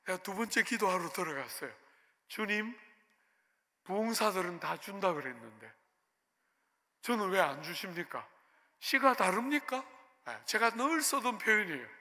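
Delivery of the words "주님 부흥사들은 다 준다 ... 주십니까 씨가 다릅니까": crooked complaint building to a challenge; retold grumbling question, sharper at the end; mildly resentful prayer. Pastor complaining to God about unanswered prayer, mildly defiant. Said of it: "삐딱하게 되면서".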